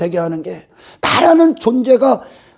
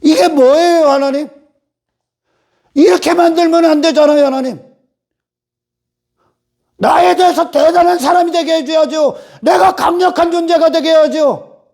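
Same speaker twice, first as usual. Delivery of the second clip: Israel whining at God; 2 semitones higher than usual. Retold or imitated. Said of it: "광야에서 이스라엘이 그럽니다".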